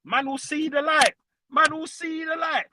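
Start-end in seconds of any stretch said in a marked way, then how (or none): 1.5-2.7 higher, half-shouted repeat; raised repeat. Real, not acted. Half-shouted boast at Spurs fans about seeing the light. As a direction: belt it out the second time.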